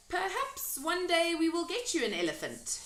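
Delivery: put-on high, light girlish voice; little girl voice. A narrator's reading. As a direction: play young Sophie, kind. Sophie's lines.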